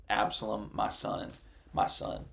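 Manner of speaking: dropping to a broken hush on the last words; grieving lament. Acted. David mourning his dead son, read in a hushed, grieving voice. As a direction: let David's grief fade to a breathy hush.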